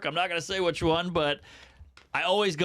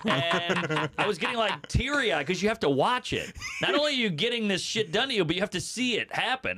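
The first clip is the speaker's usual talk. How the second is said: laughing while telling; 2 semitones higher than usual. Real, not acted.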